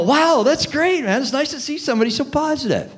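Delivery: high, excited "Wow, that's great"; juiced-up enthusiasm. Shown as a demonstration. Salesperson matching an upbeat client, excited. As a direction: pump yourself up to match them. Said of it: "juice yourself up".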